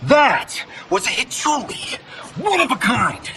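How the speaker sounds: high, indignant cry; outraged yelling. Acted. Actor upset over his one of a kind Hichuli, outraged cry. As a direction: wail in outrage over a ruined treasure.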